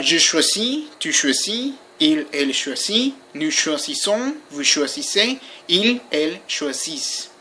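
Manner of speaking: teacher modelling each French form, pausing between them; French pronunciation model. Shown as a demonstration. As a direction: recite the French conjugation for learners. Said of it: "this is how you pronounce them".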